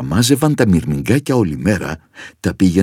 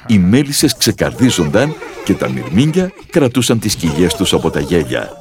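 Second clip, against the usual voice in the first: usual speaking voice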